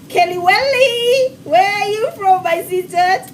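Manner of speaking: high, sing-out hello to a viewer; excited greeting. Real, not acted. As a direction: call out the name with high-pitched delight.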